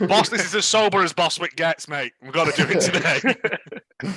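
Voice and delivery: giggling mock crew member; words broken by laughter; laughing through words.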